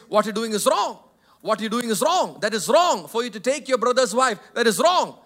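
loud, forceful condemnation; preaching hard. Retold or imitated. John the Baptist loudly rebuking Herod. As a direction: thunder it like a prophet rebuking a king. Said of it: "Preached it so hard against him".

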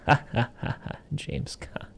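breathy, whispery knowing menace; creepy, voiceless mock chuckle and taunt; mock villain laugh.

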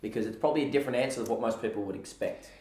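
speaking with a husky voice; a husky, slightly hoarse voice today. Real, not acted. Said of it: "my husky voice today".

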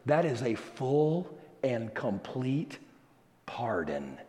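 soft and low, sinking to a whisper; hushed solemn emphasis. Real, not acted. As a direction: let the last word drop to a reverent whisper. Dwells softly on the pardon.

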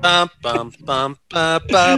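zombie sound. Acted. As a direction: moan it like a shambling zombie. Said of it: "you were making the zombie sound there".

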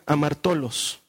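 "amartolos" sounded out slowly; "amartolos" as a careful teaching example; Greek pronunciation. Shown as a demonstration. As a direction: demonstrate the Greek word "amartolos" slowly and clearly. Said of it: "palabra griega que se pronuncia".

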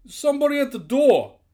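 high, loud holler; shout across distance. A narrator's reading. Guard reporting to the distant boss, hollering. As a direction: holler the news down the hall. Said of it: "exchange across some distance".

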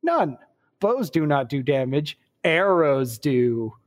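glib, emphatic advice-column answer; Monty Python-esque pronouncement. Acted. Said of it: "a little glib with the answers".

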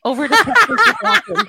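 big booming anchor handoff; news anchor voice. Pretend. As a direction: throw to the field reporter like TV news. Mock news handoff to reporter.

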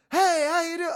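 imitated high, perky greeting; super peppy blonde chick. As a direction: sing out a bubbly, high-pitched hello. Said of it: "it's super peppy, like, blonde chick".

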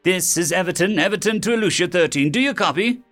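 high, urgent radio call; desperate ground control. A narrator's reading. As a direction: hail the lost crew, pitch climbing at the end. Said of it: "The desperate voices of ground control".

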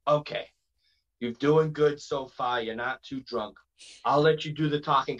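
put-on light Boston accent; Jason Rumble. Wrestler advising tipsy friends at the border, light Boston accent. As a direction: coach them along in a mild Boston accent. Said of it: "so he talks like this".

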